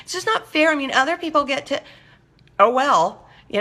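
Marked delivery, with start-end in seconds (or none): 0.0-1.8 higher, whiny mock complaint; mock whining. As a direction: pout and whine that it isn't fair. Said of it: "and whine and moan and say".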